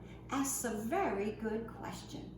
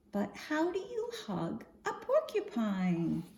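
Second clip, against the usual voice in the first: lively, sing-song picture-book reading; expressive storytime voice for little ones; reading to children. Acted. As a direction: read the rhymes out to a group of kids.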